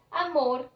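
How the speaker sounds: Amor with weight on "mor"; stress on last syllable. Shown as a demonstration. Teacher giving an example of agudas, Amor stressed on "mor". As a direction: lean on the final syllable of Amor. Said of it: "mor es la última sílaba tónica".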